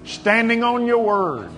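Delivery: measured, emphatic pastoral prayer; preacher's prayer with long pauses between declarations; fervent prayer. Real, not acted. Leads congregation in fervent prayer.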